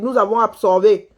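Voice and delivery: normal talking voice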